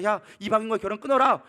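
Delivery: lightly acted stern order; Nehemiah. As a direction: give a prophet's order, slightly hammed-up. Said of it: "느헤미야가 얘기합니다".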